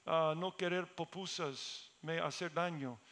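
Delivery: put-on slow, halting Spanish with an American accent; imitated Americanized Spanish. Preacher mimics friends' children back from the north, Americanized Spanish. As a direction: imitate broken, English-accented Spanish slowly. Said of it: "han cambiado la forma que hablan".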